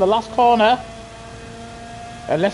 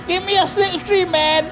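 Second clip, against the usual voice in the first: excited call; 10 semitones higher than usual. Real, not acted. Calling out during a race.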